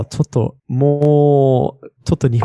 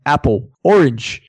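plain Australian "Apple, orange"; unexaggerated Australian accent; own Australian accent; slower than usual. Shown as a demonstration. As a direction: say Apple, orange slowly with Aussie vowels. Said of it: "I would be like".

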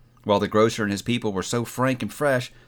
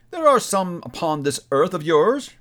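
echoing ethereal energy being; 4 semitones higher, 3 dB louder than usual. Acted. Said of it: "returned the spirit".

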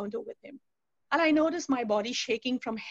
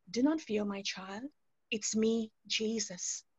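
sweet divine voice; 2 semitones lower, 4 dB quieter, slower than usual. Retold or imitated. Jesus reassures a crying woman, sweet and soft. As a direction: speak tenderly, letting it fall away softly. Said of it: "again, that sweet voice".

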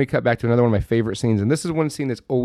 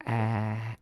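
imitated open-mouth ah; 9 dB quieter than usual. Imitates the opened mouth, tongue out.

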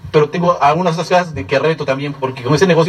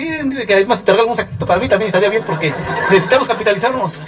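laughing mock quote; 4 semitones higher than usual. Retold joking reply about gifts.

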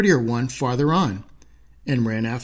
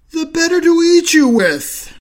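much higher, louder monstrous roar of a line; the wolf springs, menacing; big bad wolf; 14 semitones higher, 7 dB louder than usual. Wolf revealing himself to the girl, menacing roar.

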